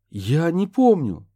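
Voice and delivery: he's blanked and scared; panicked. A narrator's reading. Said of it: "запаниковал Курт".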